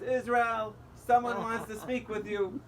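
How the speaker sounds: mock-yell it up to the floor above; calling upstairs. Cashier calls upstairs to the manager, loud mock yell. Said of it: "she yells to the upstairs".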